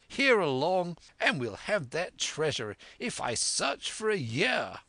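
high, eager, emphatic vow; excitable squire. Acted. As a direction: declare a grand plan with high-pitched zeal. Voices the squire vowing to sail.

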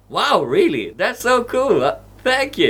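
high mock-excited gratitude; fake excited thanks. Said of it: "He's like".

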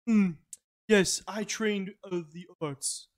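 pompous artiste. Retold or imitated. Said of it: "and then Christian".

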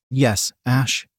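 gently voiced, understated reply; gentle. A narrator's reading. Woman reassuring the man she is about to kiss, gently. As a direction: say it with mild tenderness. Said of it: "she said gently".

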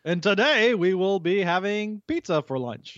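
slow, earnest principal on the intercom; school principal announcement. Pretend. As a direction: read it like morning announcements. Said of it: "a high school principal's morning announcements".

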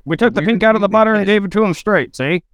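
tough-guy Bogart impression, see; Humphrey Bogart. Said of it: "like Humphrey Bogart".

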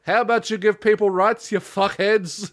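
exasperated rant, end slowed; mock angry rant. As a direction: yell it at politicians half joking. Ranting at politicians.

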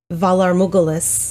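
Morghulis said as "MOO-guh-lus", without its R; mispronounced Valar Morghulis. Retold or imitated. Podcaster quoting the man's greeting, Morghulis mispronounced as "MOO-guh-lus". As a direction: say Morghulis like "moogle-us". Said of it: "You said Valar Mug-, Mug-, uh, Morghulis".

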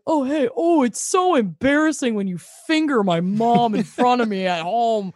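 hammed-up embarrassed teenager; mock embarrassed. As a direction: pretend mortified complaint with a put-on voice. Mocking embarrassed sons greeting parents.

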